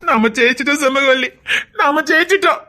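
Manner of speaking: weep with happiness; tearful joy. Acted. Husband telling his wife they won, weeping with joy.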